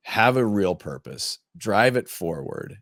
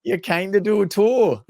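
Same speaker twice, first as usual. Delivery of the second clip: higher, slower playful jab; mock comeback; 11 semitones higher, 4 dB louder than usual. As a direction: drag it out teasingly. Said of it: "I said".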